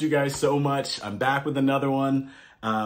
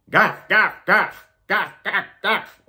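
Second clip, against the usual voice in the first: higher, gruff barks; dog barking; 6 semitones higher than usual. A narrator's reading. Reading to kids, barking like a Russian dog. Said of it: "Dogs in Russia bark".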